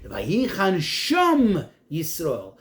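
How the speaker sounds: "sham" traag en met nadruk, de rest gedragen; stress on sham. Shown as a demonstration. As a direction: spreek "sham" langzaam en benadrukt uit. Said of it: "in order to emphasize that there".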